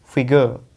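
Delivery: फिगर as FI-guh, no r at the end; silent R. Shown as a demonstration. Teacher removes the s for students, फिगर as FI-guh without r. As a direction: drop the final r of फिगर. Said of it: "आर नहीं बोलेंगे".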